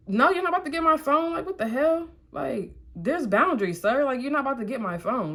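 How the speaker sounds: high-pitched, indignant pushback; indignant refusal. Retold or imitated. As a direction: refuse like a boundary was crossed. Refusing to hand over phone, retold.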